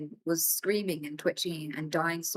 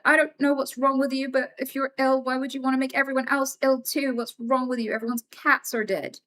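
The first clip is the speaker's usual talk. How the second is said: put-on angry kid confronting neighbor; 5 semitones higher than usual. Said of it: "And I was like".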